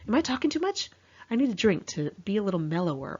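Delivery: lightly voiced jittery friend; imitating anxious friend. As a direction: mimic her nervous self-checking. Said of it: "She kept saying things like".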